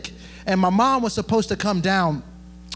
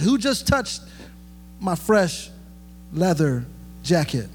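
a joking Jesus who cares about his clothes; mock Jesus. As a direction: tease it like he's worried about his jacket. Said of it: "He didn't say that".

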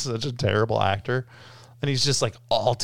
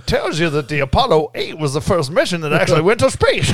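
put-on Southern accent; 3 semitones higher, 6 dB louder than usual. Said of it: "Continue with your characterizations".

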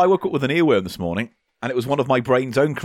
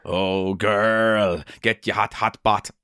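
put-on Jamaican accent; 5 semitones lower, 4 dB quieter, much slower than usual. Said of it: "in a cod Jamaican accent".

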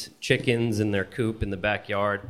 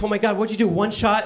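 high, amazed questions; mock amazed high voice; surprised; 10 semitones higher, 4 dB louder, faster than usual. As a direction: play the wife's astonishment. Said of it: "She's like".

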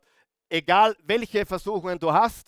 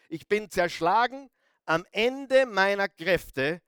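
slow, weighted psalm recitation; solemn scripture reading; slower than usual. Acted. Preacher reading David's lament to the congregation, slow and solemn. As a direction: let each phrase land slowly, with pauses.

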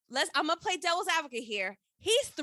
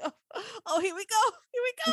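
retold anticipation; 7 semitones higher than usual. Re-enacts bracing for the drama.

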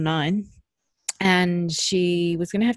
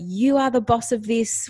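slow, emphatic, higher retold encouragement; empowering teacher; 5 semitones higher, 4 dB louder than usual. Swimming teacher to nervous child at her level, empowering. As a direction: hand the child control, each word slowly and firmly. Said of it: "And she's like".

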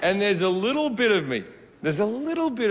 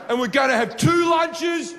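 put-on shouty kid candidate; 3 semitones higher than usual. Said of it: "walking around going".

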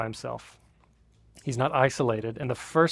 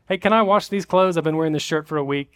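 pleading; 3 semitones higher, 7 dB louder than usual. Retold or imitated. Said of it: "I'd be like".

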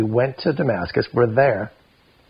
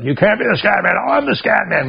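high, louder sing-song taunt; mock childish taunt; 10 semitones higher, 4 dB louder than usual. The speaker taunts the kid over the name, high mock taunt. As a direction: tease like a bratty kid.

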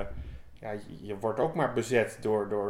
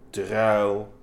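short, louder growled "Druil"; growled grumble; 2 semitones lower, 6 dB louder than usual. Acted. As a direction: grumble it like a crocodile chewing beet leaves. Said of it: "gromde mijn vraatzucht".

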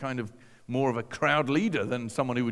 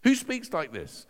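raised, drawn-out question of wonder; astonished inner questioning; amazed questioning; 6 semitones higher than usual. Retold or imitated. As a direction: ask it slowly, high, in amazement.

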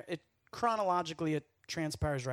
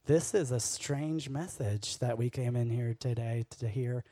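lowered voice of a puzzled churchgoer; mock baffled listener; 6 semitones lower than usual. Congregation reacting to a strange message, mock bafflement. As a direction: imitate a listener grumbling, pitched down.

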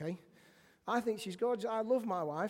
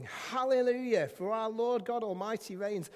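raised-voice scripture proclamation; proclaimed shout; 3 semitones higher, 4 dB louder than usual. Acted. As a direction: proclaim it like a rejoicing multitude.

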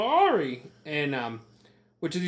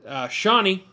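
stutter; 4 semitones higher than usual. Real, not acted. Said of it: "I have a speech impediment".

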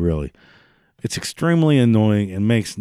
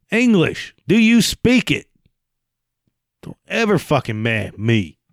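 mock shouted demand; 6 semitones higher than usual. Mock movie-style outrage.

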